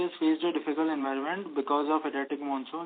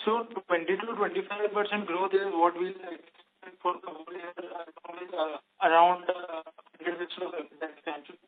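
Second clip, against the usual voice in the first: muffled, hand over the mouth. Real, not acted. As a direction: talk through a covered, muffled mouth. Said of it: "Your voice is very muffled".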